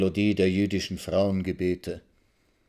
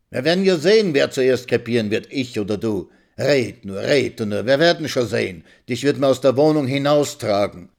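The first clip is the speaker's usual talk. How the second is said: louder, higher at the start; spiteful threat; 3 semitones higher, 5 dB louder than usual. Acted. Old woman threatening the young wife, spiteful. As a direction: curse her back.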